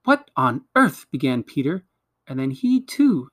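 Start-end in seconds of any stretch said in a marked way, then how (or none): 0.0-1.1 slow, higher-pitched bewildered question; startled disbelief. A narrator's reading. Peter begins to question the others, startled. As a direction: draw it out in bewilderment.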